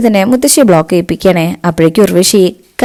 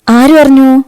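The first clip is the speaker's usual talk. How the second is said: surprised question; 7 semitones higher, 4 dB louder, slower than usual. Acted. Grandmother doubts Kalpana's claim.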